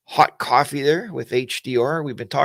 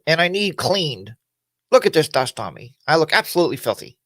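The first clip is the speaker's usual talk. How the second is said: talking motorcycle voice; 4 semitones higher than usual. Retold or imitated. Dusty motorcycle begs its owner for a wash, lightly voiced whine. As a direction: play the dusty bike asking to be cleaned. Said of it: "And it said".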